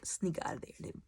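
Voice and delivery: sneaky whisper. Shown as a demonstration. Vlogger whispering about sneaking off. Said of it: "just quietly".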